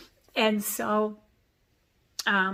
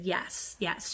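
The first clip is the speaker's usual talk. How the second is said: a hushed, breathless yes; whispering; 6 dB quieter than usual. Retold or imitated. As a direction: whisper it like a secret behind a closed door. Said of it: "whispered it to me".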